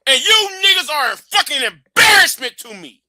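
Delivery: loud, disgusted outburst; host scolding his audience, loud and angry; angry shout. Real, not acted. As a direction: shout the contempt at the viewers.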